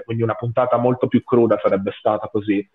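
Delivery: ordinary talk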